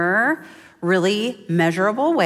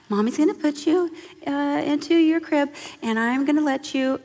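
put-on higher-pitched talk to a baby; tender mommy voice; 6 semitones higher than usual. Mother tells her newborn about the crib, tender mommy voice. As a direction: sweetly explain it to a newborn.

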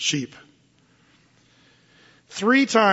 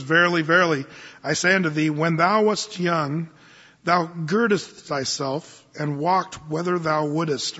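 formal scripture reading. Acted.

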